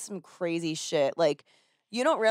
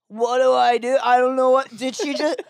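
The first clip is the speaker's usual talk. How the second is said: imitating lost husband; 6 semitones higher, 4 dB louder than usual. Husband panicking in car.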